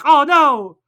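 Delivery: over-the-top mock despair; hammed-up dismayed shriek. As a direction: wail it like a cartoon heroine. Anna voiced, dismayed.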